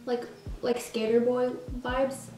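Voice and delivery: flat robotic monotone. Real, not acted. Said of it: "Why did I sound like a robot?".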